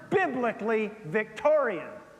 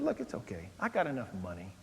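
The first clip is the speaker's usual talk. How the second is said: reassuring; 3 semitones lower, 3 dB quieter than usual. Retold or imitated. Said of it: "I said".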